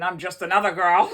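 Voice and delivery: laughing through the words; cracking up at her own story. Real, not acted. Vlogger to her viewers, laughing it off. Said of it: "I don't know why I'm laughing".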